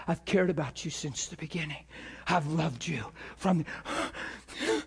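soft, low and tender; tender voice of God. Acted. God to a man in his car, tenderly and low. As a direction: speak low and softly, as God reassuring someone. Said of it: "the Spirit of God come in his car".

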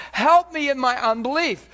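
high, loud plea; humble heart cry. Retold or imitated. Father asking Jesus for help, crying out. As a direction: cry out for help with your doubt. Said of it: "he says".

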